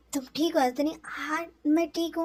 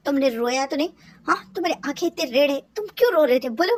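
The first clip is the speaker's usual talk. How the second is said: louder, fast, building anxious scolding; worried scolding shout; 6 dB louder, faster than usual. Retold or imitated. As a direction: nag him hard, rising to a yell. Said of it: "तुम मुझ पे इतना क्यों चीख रहे हो?".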